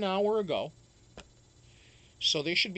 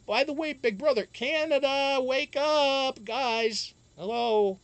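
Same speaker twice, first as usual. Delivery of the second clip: loud, playful wake-up call; 8 semitones higher, 5 dB louder, slower than usual. Real, not acted. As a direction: shout to rouse the audience. Calling out to viewers.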